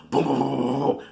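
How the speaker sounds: rapid booming fight noises; vocal sound effect of a scuffle; imitated thuds. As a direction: mimic blows landing in a rumbling run.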